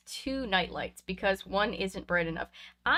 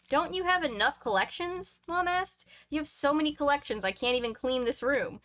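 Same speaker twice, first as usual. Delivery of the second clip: lightly voiced exasperated mom; 6 semitones higher than usual.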